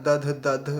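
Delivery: दध दध with the sounds swapped; wrong version. Retold or imitated. Teacher imitating how some say it wrongly. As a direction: imitate the muddled दध. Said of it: "कुछ लोगों का ऐसे चलता है".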